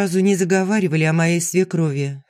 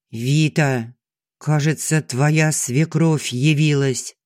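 grave friend's voice; 2 semitones lower, slower than usual. Acted. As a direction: deliver the news slowly and heavily. Kira on the phone.

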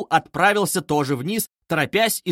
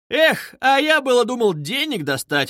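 higher, louder exclamation; disappointed outcry; 9 semitones higher, 4 dB louder than usual. A narrator's reading. Young man exclaiming he wanted money, louder. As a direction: cry out in letdown. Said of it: "вскричал молодой человек".

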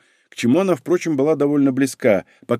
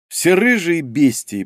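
ordinary delivery

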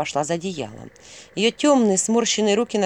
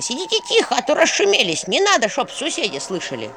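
scolding granny; 7 semitones higher than usual. A narrator's reading. Old woman scolding guests.

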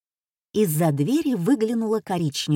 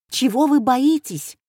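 blurting out; 5 semitones higher, 5 dB louder than usual. Acted. Dacha neighbour bursts into the conversation, higher and louder. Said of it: "сорвался вдруг дачный знакомый".

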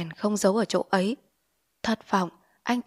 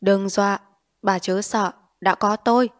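stern rebuke; 5 dB louder than usual. Acted. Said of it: "nghiêm trang trách".

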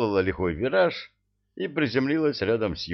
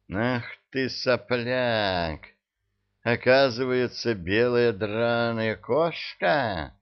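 high, slow silky menace; insinuating witch; 3 semitones higher, slower than usual. Acted. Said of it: "вкрадчиво спросила ведьма".

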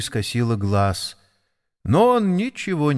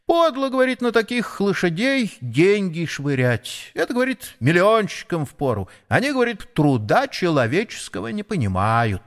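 sparrow voice; 6 semitones higher than usual. Acted. Sparrow retells shopkeeper's words.

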